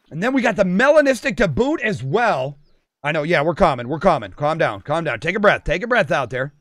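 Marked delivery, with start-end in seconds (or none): 3.0-6.5 lower, reassuring murmured patter; calming. Real, not acted. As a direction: talk everyone down gently. Calms himself and viewers down.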